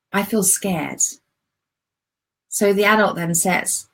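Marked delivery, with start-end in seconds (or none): 0.1-1.0 put-on soft, timid little-girl voice; small scared child. Shown as a demonstration. Inner child writes back to the adult, softly and timidly. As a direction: answer like a frightened small girl. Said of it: "allow her to write back".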